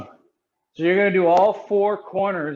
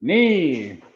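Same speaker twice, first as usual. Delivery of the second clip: sharp martial arts commands; 5 dB quieter, much slower than usual. Acted. Karate class counting in Japanese.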